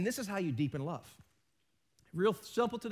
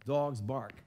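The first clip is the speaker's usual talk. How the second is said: lightly acted smooth sweet talk, lower and softer; 6 semitones lower, 5 dB quieter than usual. Husband talking up his wife, mock sweet talk. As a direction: lay on mock flattery, low and slowing. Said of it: "like, talking her up".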